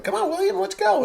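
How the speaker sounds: high mock mom voice; mimicking wife. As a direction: call the toddler like his mom. Wife calling toddler, voiced.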